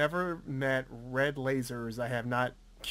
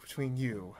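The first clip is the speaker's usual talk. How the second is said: Liam Neeson impression; 3 semitones lower, 6 dB quieter than usual. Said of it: "Cast Liam Neeson everything".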